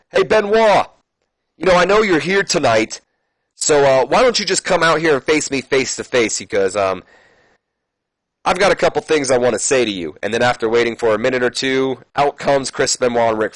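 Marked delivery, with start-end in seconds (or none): 0.1-10.2 a higher, lightly voiced wrestler calling out his rival; Edge's promo. Edge calling out Benoit, mildly voiced challenge. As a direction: read it like a heel challenging from the ring. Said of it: "Edge takes the mic and he says".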